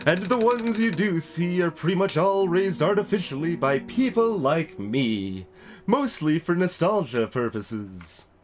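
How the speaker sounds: talking plant holding forth with stretched words; potted plant voice. Acted. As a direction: declaim as an animated potted plant. Voices plant-keeper character in game.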